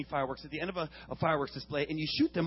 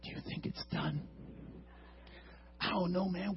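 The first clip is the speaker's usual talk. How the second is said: much softer, hushed question; 14 dB quieter than usual. Retold or imitated. Two boys hushed beside an unlit firework, whispering. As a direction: keep it down so the firework can't hear. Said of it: "Why are we whispering?".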